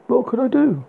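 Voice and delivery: high, loud frightened cry; quivering voice. A narrator's reading. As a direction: voice quivering with fear. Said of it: "voice quivered".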